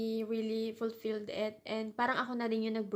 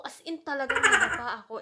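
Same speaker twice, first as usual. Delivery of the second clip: laughing; 6 dB louder than usual. Real, not acted. Laughing while recounting her fall.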